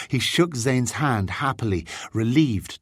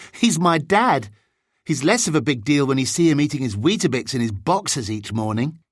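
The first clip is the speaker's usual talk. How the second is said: lightly voiced boy, a little higher; amused boy; 5 semitones higher than usual. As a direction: joke fondly about dad, lightly in character. James jokes about his dad.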